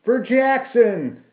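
slow, high rallying shout; drawn-out, high-pitched war cry; battle cry. A narrator's reading. Men echo the battle cry.

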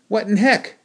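high, loud yelp of surprise; startled cry. A narrator's reading. Hit in the nose, crying out in sudden surprise. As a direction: cry out, shocked and hurt. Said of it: "I cried".

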